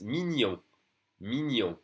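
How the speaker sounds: "mignon" with ny in the middle; French GN sound. Shown as a demonstration. Teacher giving the adjective cute as example, ny sound in "mignon". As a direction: say "mignon" as mee-nyon, nasal ending. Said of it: "It's the same in French".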